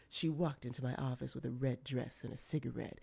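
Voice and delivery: low, soft hardboiled narration; a hint of a film noir detective. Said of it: "I'm just expecting him to be like".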